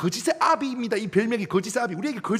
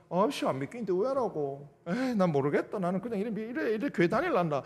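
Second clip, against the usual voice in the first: sulky grumble; 3 dB quieter than usual. Retold or imitated. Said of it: "이렇게 하시면 안 됩니다".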